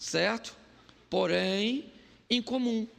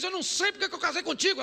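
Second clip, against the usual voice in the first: mock jab; 10 semitones higher, much faster than usual. Staged quarrel, husband.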